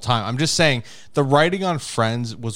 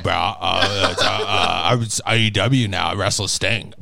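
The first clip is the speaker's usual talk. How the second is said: put-on Hamilton accent; 7 semitones lower than usual. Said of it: "Hamilton accent".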